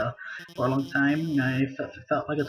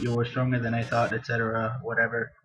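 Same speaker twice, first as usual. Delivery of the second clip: bored defeat line; 5 semitones lower, 3 dB quieter than usual. Acted. Reading defeated boss lines flatly.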